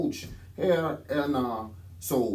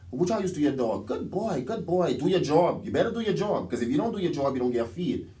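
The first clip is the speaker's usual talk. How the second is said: mock master talking to a dog; 3 semitones higher than usual. Mocking masters talking to pets.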